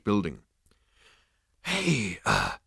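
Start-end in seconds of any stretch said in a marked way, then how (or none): 1.6-2.6 stammering. A narrator's reading. Zaphod hanging from a ledge, stammering. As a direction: start to call out, then falter. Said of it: "he stammered".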